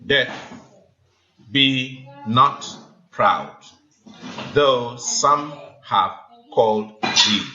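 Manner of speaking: slow reading with a break after proud, stress falling on Death; scanned recitation. Shown as a demonstration. Teacher reads the first line to class, slowly scanning the beats. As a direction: read the line out beat by beat, letting Death take the stress. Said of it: "the first line doesn't have the ten syllables".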